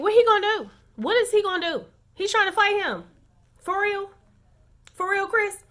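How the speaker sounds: high, disbelieving questions; incredulous. Real, not acted. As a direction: scoff at him in disbelief. Disbelief at Chris jumping up.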